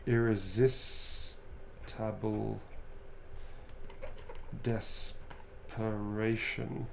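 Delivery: very slow, spelled-out dictation; slow it down word by word; slow dictation while writing; dictating slowly. Real, not acted.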